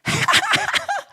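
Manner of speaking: a high, mocking burst of laughter; father's teasing laugh. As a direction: laugh at him like a teasing dad. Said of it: "이렇게 얘기하신 거예요". (아버지 흉내로 높게 터뜨리는 놀리는 웃음)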